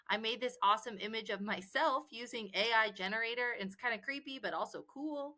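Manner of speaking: distant, quiet recorded voice; like a voiceover track. Acted.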